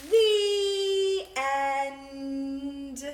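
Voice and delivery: loud, drawn-out "The end." falling; loud slow "The end."; grand ending. Shown as a demonstration. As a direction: close the book with ceremony. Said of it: "When the book is over, say".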